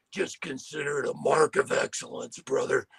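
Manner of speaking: lightly voiced Hawk.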